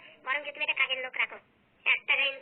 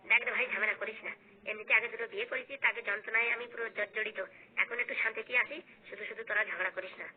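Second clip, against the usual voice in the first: weary elder brother; 5 semitones lower than usual. Acted. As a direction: sigh through it, worn out by fights. Elder brother begs them stop.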